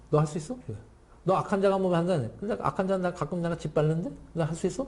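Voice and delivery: lightly acted needling challenge; understated, teasing sarcasm; sarcastic taunt. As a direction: toss out the dare with mild mockery. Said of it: "제가 지금 말한 투예요".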